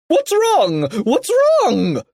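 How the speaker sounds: high, urgent hollering; yell. A narrator's reading. Mister Krupp running to Kipper, high urgent yell. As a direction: holler each question with a falling end. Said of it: "yelled Mister Krupp".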